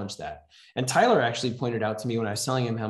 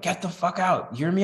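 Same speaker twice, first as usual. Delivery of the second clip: put-on threatening old father; 8 semitones higher than usual.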